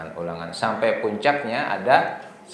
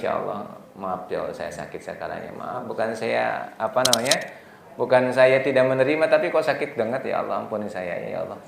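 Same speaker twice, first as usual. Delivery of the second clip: weeping prayer. Acted. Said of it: "Sambil kita nangis".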